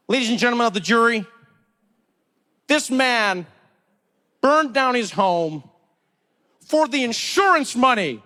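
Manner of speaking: lightly voiced prosecutor laying out the crime; dramatic prosecutor. Prosecutor addressing the jury about the fire, dramatic. Acts a prosecutor's opening speech.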